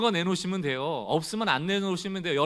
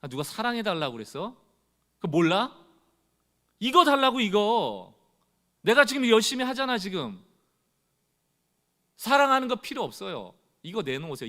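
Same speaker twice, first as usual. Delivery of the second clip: rising into an annoyed, louder, higher complaint; irritated demand; 4 semitones higher, 4 dB louder than usual. Retold or imitated. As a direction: whine at God like a spoiled believer. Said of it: "그럼 짜증나는 거예요". (짜증 섞인 요구)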